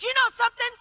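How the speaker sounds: a touch of the relieved passenger; mild impression of the woman. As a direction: passenger confessing to the flight attendant, lightly voiced. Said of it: "and she goes".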